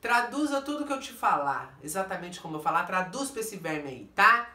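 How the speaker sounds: bossy, irritated command; very worked up. Retold or imitated. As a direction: lay down the law, ending on a loud "tá?". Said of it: "porque eu tô muito nervosa".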